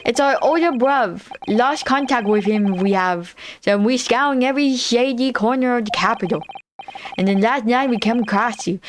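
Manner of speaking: put-on British accent. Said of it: "they're definitely trying to do a British accent".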